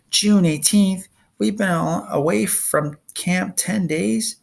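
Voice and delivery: high, shocked disbelief; shocked outburst. A narrator's reading. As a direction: blurt it out in dismay. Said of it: "She cursed".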